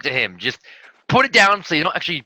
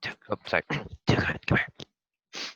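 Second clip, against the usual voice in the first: hushed call; 6 semitones lower, 7 dB quieter than usual. Pretend. Calling an NPC quietly, whispering.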